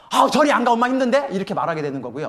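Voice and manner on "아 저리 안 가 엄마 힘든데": loud, high irritated scolding; mock angry mom, raised voice; stressed angry mother. Shown as a demonstration. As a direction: snap at the child from stress. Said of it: "스트레스 받아서 화가 나면요".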